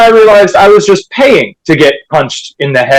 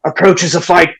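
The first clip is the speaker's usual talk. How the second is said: lightly voiced nature documentary narrator; hushed wildlife narrator delivery. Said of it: "that Discovery Channel documentary".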